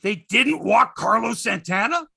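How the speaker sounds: feigned outrage, ending on a rising question; mock disbelief. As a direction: lean hard on each word, appalled. Mock disbelief at imagined news.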